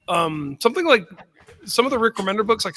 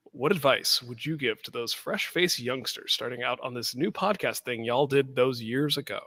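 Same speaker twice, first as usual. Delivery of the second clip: slow, lower Appalachian twang; Appalachian accent; 4 semitones lower, 4 dB quieter than usual. Acted. Reading a listener question in a slow Appalachian twang. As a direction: draw it out like a hill-country drawl. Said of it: "giving it my Appalachian shine".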